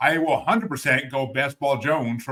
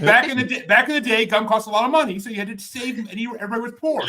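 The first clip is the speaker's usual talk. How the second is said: put-on old-timer voice; 6 semitones higher, 7 dB louder than usual. Mock old-timer storytelling.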